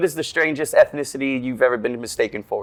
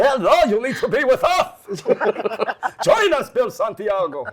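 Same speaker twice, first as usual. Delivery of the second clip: recruiter voice; 7 semitones higher, slower than usual. Retold or imitated. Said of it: "I'm gonna send Chaim up there to".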